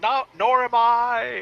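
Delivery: very high, hollered, shouted retort. Narrating a fight, voicing Naeus shouting from over the hill as he runs: Naeus yelling. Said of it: "Naeus yells out".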